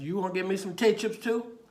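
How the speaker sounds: high, loud echoed question; humoring a child up high; talking to a child. Retold or imitated. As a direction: play up surprise for a little kid. Officer humoring a small child.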